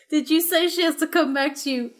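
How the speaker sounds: high, giggly nervous voice; fumbling for words; awkward kid. Acted. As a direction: kid awkwardly asking about the reward.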